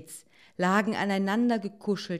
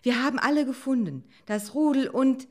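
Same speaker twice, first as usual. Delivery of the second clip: high, loud, quick fox; hastily said; 8 semitones higher, 6 dB louder than usual. A narrator's reading. Fox saving the mood before it turns, hurried. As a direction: rush out the good news. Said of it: "beeilte sich der Fuchs zu sagen".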